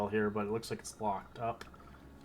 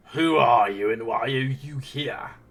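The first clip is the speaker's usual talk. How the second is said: booming, very loud snarling voice; 3 semitones higher, 12 dB louder than usual. Narrating a creature that moves toward the listeners and questions them, snarling creature. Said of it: "as he snarls towards you".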